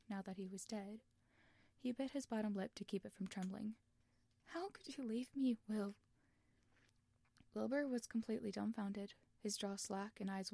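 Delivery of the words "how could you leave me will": whispered through tears; broken whisper. Acted. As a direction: let it crack and fade. Tommy crying, lip trembling.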